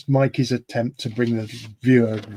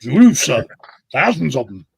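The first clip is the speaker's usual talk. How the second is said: put-on Welsh accent; 3 dB louder than usual. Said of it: "That was a very good Welsh accent there".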